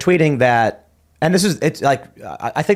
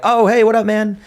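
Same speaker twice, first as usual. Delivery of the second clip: higher and louder friendly shout back; calling back; 9 semitones higher, 4 dB louder than usual. Retold or imitated. Tim shouts back to the guy across the pit, loud cheerful greeting. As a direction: answer a buddy across a noisy room.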